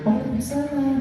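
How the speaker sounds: high, soft little puppet voice; monkey puppet voice. Acted. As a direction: squeak it like a shy monkey puppet.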